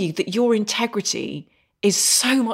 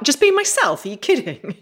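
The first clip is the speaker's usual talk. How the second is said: mocking disbelief; 4 semitones higher than usual. Mocking her own disbelief.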